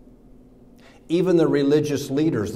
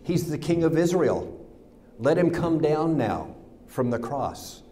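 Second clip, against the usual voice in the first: mocking; 3 semitones higher than usual. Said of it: "mocked him".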